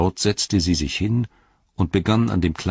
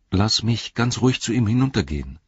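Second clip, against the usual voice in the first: put-on higher, earnest young hobbit pleading; Frodo's voice; 5 semitones higher than usual. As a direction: speak up for the creature, higher than the narration.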